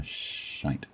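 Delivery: unvoiced muttered swear. Real, not acted. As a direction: swear under your breath. Swearing under breath at fuzz.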